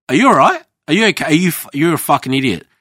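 high incredulous mock sympathy to a chef; incredulous mock concern. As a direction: squeak it out in disbelief. Mocking a farting chef.

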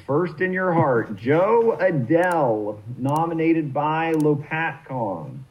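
slow showman introduction; grand announcer intro. Acted. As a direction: draw the name out like a ring announcer. Auctioneer introduces player grandly.

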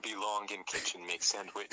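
lightly voiced dumb caveman; broken-English caveman grunt. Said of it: "in a caveman voice".

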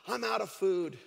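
acted old lady's porch prayer; lightly voiced woman praying aloud; praying out loud. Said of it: "prayed out loud like she normally did".

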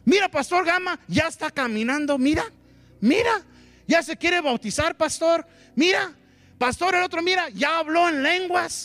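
put-on high, bright bragging to the pastor about a growing child; proud excited parent. A proud spiritual father bragging to Pastor Gama, excited and high. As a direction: gush like a thrilled spiritual father.

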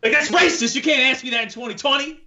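high-pitched pretend indignation; mock outrage. Co-host jokes about the Italian question, mock outraged. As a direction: protest as if scandalized, for laughs. Jokingly acts offended at accent question.

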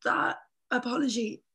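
losing her voice, breathy rasp; raspy whisper. Real, not acted. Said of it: "I'm losing my voice".

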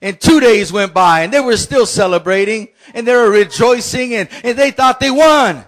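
rising, shouting preacher's build; full-force preaching. Acted. Pastor rallying the congregation, shouting praise. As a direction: preach it up, lift the room.

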